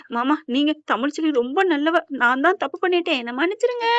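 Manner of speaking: dying confession, last word stretched into a faint wail; acted dying plea. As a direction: imitate a last breath begging pardon. Last words before dying.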